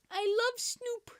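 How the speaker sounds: whispered aside. Real, not acted. Fan confessing a love of a rapper, whispered. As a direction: breathe it secretly.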